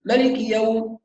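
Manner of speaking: مالك swallowed as melik with clipped vowels; rushed vowels. Shown as a demonstration. Teacher showing students the rushing mistake. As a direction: rush مالك and eat its short vowels. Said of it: "يأكل الحركات".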